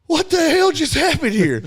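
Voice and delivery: high laughing, then an incredulous question; laughing disbelief. Real, not acted. Storyteller cracking up at the memory, laughing high.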